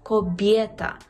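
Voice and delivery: Кобєта as kob-ye-ta; clear ye. Shown as a demonstration. Teacher stresses the sound, clear ye in Кобєта. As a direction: say Кобєта with a confident glide. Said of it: "чітко вимовляємо Є".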